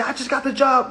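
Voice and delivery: high, loud, chirpy mocking brag; mocking proud announcer. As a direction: announce it proudly to mock them. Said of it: "I see somebody say".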